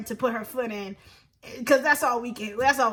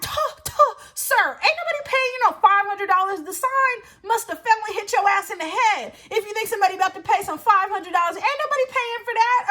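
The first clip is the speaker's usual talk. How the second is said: indignant retort; 6 semitones higher than usual. Retold or imitated. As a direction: push back at the price, outraged. Quoted self arguing with bouncer.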